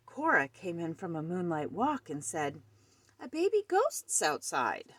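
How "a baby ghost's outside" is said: higher-pitched, eager report; startled announcement. A narrator's reading. Cat back from a walk tells Gus, startled announcement. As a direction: announce a strange discovery.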